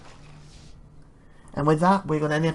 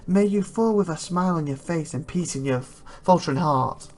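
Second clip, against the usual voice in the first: slightly raised, measured, ceremonial voice; solemn knightly blessing; 4 semitones higher than usual. Acted. Elder knight blessing a departing companion, solemn and measured. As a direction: bestow it like a formal blessing.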